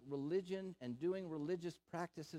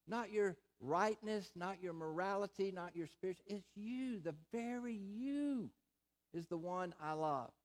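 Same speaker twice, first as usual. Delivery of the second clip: lightly voiced, unhurried TV neighbor; a hint of a kindly children's-show host; preacher imitating a kindly TV neighbor as God; Mister Rogers; 2 semitones higher than usual. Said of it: "like Mister Rogers".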